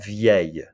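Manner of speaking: "vieille" ending like bouteille, in a Y sound; "vieille" modelled as vyay-yuh; demonstrating pronunciation. Shown as a demonstration. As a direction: say "vieille" with no L, just a Y glide. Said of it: "Just like famille and bouteille".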